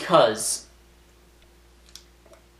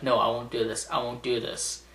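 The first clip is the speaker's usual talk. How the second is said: calming himself; 8 dB quieter than usual. Acted. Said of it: "And John Cena is like".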